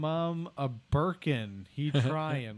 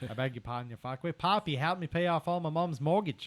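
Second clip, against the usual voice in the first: Australian accent. Asked to redo a line for a game character, australian accent. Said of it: "No, Australian though".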